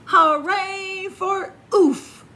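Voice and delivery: high, loud, slow cheer. Acted. The animals cheering Warren, high and loud. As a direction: cheer him on. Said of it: "everyone cheered".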